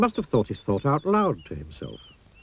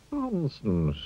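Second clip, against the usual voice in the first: snorting dismissal; 4 semitones higher, 4 dB quieter than usual. Acted. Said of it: "snorted the wizard".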